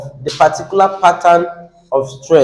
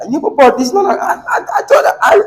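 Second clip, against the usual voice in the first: laughing; 10 semitones higher, faster than usual. Retold or imitated. Retelling her own mistake, laughing.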